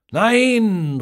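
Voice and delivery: high, loud cry of dismay; horrified cry. A narrator's reading. Football fans watching a goal conceded, horrified shout. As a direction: gasp out a shocked no as the goal goes in. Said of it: "rufen alle völlig entsetzt".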